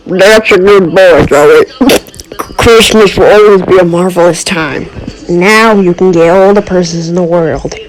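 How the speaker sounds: lightly voiced Grinch praising his boy; doting Grinch daddy.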